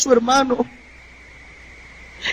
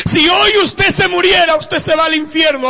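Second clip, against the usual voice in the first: preaching shout; 6 semitones higher than usual. Real, not acted. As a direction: shout the warning at the congregation. Warning the congregation of hell. (advertencia gritada de predicador)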